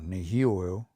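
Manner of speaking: nehio, longer form, stressed on hi; stress moved over. Shown as a demonstration. Teacher shows stress moving over to hi in nehio. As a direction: shift the weight in nehio onto the second syllable. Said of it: "This moves over now".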